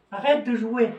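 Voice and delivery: a touch of a stern big sibling; telling brother to stop. Acted. Teacher acting out telling a little brother to stop playing, lightly stern. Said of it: "Tu dis à ton frère".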